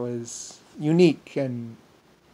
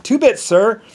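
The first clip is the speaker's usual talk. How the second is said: carriage driver; 8 semitones higher, 9 dB louder, slower than usual. Retold or imitated. Carriage driver quoting fare.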